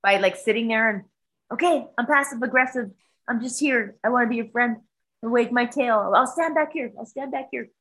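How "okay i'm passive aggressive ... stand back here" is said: higher-pitched voice for an ingratiating cat; passive-aggressive friendly cat. Retold or imitated. Visiting cat trying to train Buddy, passive-aggressive friendly voice. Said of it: "he tried to train Buddy".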